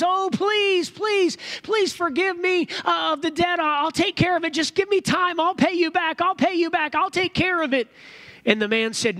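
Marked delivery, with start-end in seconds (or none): 0.0-7.9 high, repetitive begging; acted desperate pleading. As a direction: play a debtor pleading on his knees for time. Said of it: "the guy falls down and says".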